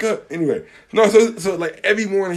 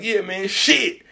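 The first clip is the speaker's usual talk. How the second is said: slow laid-back coworker; 3 semitones higher, much slower than usual. Retold or imitated. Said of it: "He's like".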